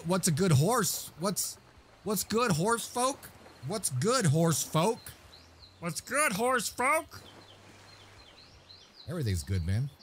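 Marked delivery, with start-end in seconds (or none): 0.0-7.2 playful singsong. Acted. Repeating viewer greeting playfully.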